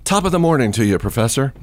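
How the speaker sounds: classmate's cheeky top of the morning; mock Irish greeting. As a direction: bounce it like a cheeky tourist's Irish hello. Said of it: "instead of just saying, "Good morning, Professor," he says".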